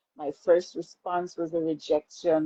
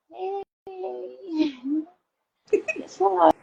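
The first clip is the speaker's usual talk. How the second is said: laughing announcement; 13 semitones higher, slower than usual. Retold or imitated. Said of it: "I was like".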